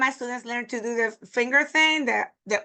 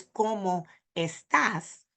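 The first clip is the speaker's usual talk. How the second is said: ¿Cómo estás? slowly, word by word; unnaturally separated words; slower than usual. Shown as a demonstration. Teacher showing strange speech, separated words. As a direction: pause between cómo and estás. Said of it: "would be very ex-, very strange".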